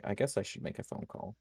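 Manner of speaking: hushed whisper in the air ducts; whispered to himself. Retold or imitated. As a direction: breathe it out so no one hears. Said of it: "I'm like".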